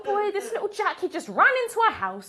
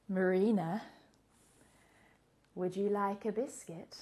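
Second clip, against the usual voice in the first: put-on lower, much softer kid's voice; small voice through door; 6 semitones lower, 10 dB quieter than usual. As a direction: ask it quietly from behind the door. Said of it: "this voice from the other side of the door".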